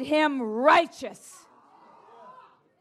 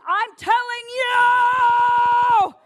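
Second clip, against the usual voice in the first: loud, high, slow stretched cry; fervent shout; 7 semitones higher, 6 dB louder, much slower than usual. Real, not acted. Preacher urging the church on revelation, fervent shout. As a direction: hold the last word in a rising-volume shout.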